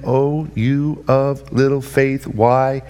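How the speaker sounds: gentle rebuke. Retold or imitated. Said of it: "said to him".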